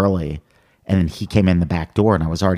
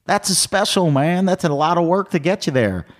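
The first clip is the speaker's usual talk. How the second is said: high mock Ron White; 10 semitones higher than usual. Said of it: "And he goes".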